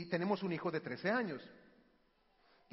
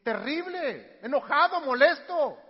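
loud, raised, emphatic venting; angry child; 5 semitones higher, 10 dB louder, slower than usual. Retold or imitated. Child telling parent how yelling feels, angry venting. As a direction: hit each feeling hard. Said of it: "¿y eso cómo te hace sentir?".

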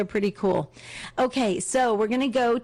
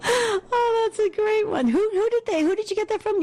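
laughing while talking; 13 semitones higher than usual. Real, not acted. Host cracks up at joke.

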